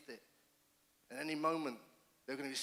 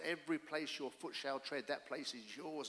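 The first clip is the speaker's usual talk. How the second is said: scripture read slowly; 3 dB quieter than usual. Retold or imitated. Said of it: "and it says".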